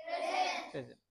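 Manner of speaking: প্রেজেন্ট with the s said as a z; প্রেজেন্ট said twice, clearly with z; correct pronunciation. Shown as a demonstration. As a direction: answer প্রেজেন্ট with a voiced z. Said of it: "প্রেজেন্স বলি না প্রেজেন্ট বলি?".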